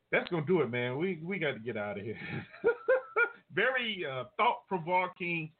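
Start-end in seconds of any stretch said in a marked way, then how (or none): 2.2-3.3 short high-pitched chuckle; light laugh to himself. Real, not acted. Host wrapping up the show, chuckling.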